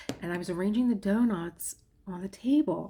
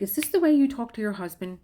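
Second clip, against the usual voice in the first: retold scream; 4 semitones higher, 6 dB louder than usual. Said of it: "my mother is screaming at me".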